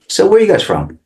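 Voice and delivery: pitched well up, curious and bright; high friendly question. Retold or imitated. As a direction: ask it lightly, way up high. Friendly question to Italian customers.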